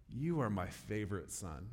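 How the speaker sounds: soft, affectionate tease; fond teasing. Retold or imitated. Parent telling her teenage son, softly fond. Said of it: "I'll say something like".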